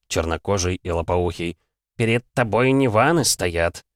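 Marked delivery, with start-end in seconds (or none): 2.0-3.8 slow, drawn-out warning; lightly voiced godling. Minor god warns the cheeky hero, slow and lightly voiced. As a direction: put the boy in his place, stretching the words. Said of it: "произнёс другой божок".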